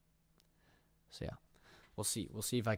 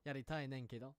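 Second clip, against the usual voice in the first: Kansai dialect; 4 dB quieter than usual. Shown as a demonstration. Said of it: "Kansai ben".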